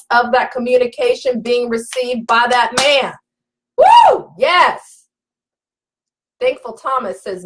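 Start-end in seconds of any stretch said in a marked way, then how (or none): 3.8-5.0 sudden high, loud whoop of delight; excited woo. Real, not acted. Coach cheering her live audience, excited whoop. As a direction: whoop it out, thrilled.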